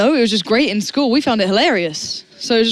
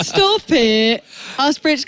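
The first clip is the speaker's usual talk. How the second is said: said through real laughter; laughing; 2 semitones higher, much slower than usual. Real, not acted. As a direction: laugh the words out. Laughing at the joke.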